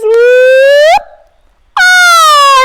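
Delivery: high, loud whoop of joy; excited sprout. Pretend. Teacher voicing the happy sprout in spring, high and delighted. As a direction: cheer as the sprout pops up.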